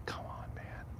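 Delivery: very soft, unvoiced plea; anxious whisper. Real, not acted. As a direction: whisper it under tension. Afraid, hiding in dark cemetery.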